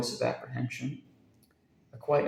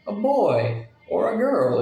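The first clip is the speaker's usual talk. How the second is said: higher, louder, slow delight; delighted cry; 9 semitones higher, 6 dB louder, slower than usual. A narrator's reading. Jack learns of the baby, delighted cry. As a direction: burst out with joy. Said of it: "cried Jack in delight".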